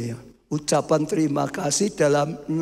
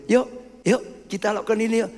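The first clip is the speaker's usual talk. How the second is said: gentle invitation; 5 semitones higher, faster than usual. Acted. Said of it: "Ini ajakan dengan baik itu".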